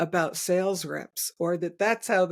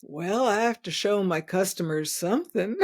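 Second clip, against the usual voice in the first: put-on Southern accent. Sales rep after a pause on phone, light Southern accent. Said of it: "in a very thick Southern accent".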